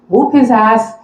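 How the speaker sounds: an irritated stranger yelling from the seat ahead; retold angry yell. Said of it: "he looks back and he yells".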